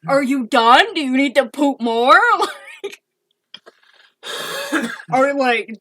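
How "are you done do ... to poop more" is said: louder exasperated questions, acted out; retold yelling. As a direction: re-enact scolding little brother, loudly. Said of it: "I'm yelling at him".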